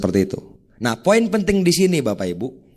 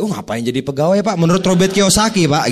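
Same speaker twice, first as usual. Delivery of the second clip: know-it-all talk-down, louder at the end; condescending lecture; 3 semitones higher, 3 dB louder than usual. Shown as a demonstration. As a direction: lecture the prospect smugly. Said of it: "Jadi jangan". (menggurui dengan nada meremehkan)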